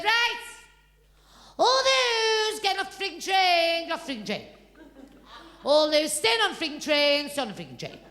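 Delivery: put-on a boy calling out like a conductor, rising then dropping; child cheekily announcing the delay; mock train conductor. Child plays conductor again.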